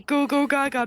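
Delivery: put-on baby voice. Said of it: "I sound like a fucking baby".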